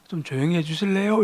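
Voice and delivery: put-on polite Seoul-accented request. Man asks noisy subway passengers for quiet, polite Seoul accent. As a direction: ask politely in imitated Seoul speech. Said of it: "서울말로".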